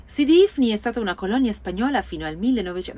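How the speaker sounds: customer service voice. Pretend. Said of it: "devo fare più la voce da Gigi".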